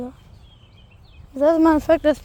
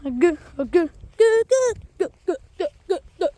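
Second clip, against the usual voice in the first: bird chirp imitation; 3 semitones higher, much faster than usual. Shown as a demonstration. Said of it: "I was trying to whistle".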